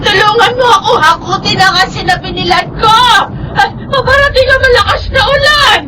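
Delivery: panicked cry for help against the rain. Acted. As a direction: beg for help, half sobbing. Old woman crying for help. (umiiyak na humihingi ng tulong)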